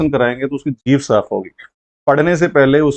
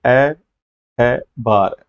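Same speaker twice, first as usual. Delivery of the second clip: broken into syllables; much slower than usual. Shown as a demonstration. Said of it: "तोड़ करके बोलना सिखाइए".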